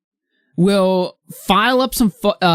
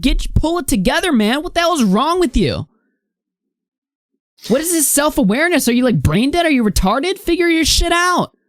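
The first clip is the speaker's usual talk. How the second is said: exasperated scolding. Real, not acted. Scolds Cobra directly in a rant.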